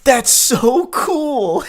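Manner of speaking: high, loud, drawn-out gushing; hammed-up overexcited cheer; mock exclamation. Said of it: "I love that with the exclamation point".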